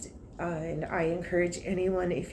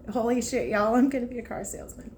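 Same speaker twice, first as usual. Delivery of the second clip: overjoyed; 5 semitones higher, faster than usual. Retold or imitated. Overjoyed on getting the job.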